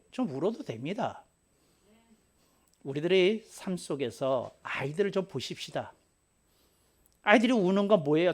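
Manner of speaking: ordinary talk, nothing marked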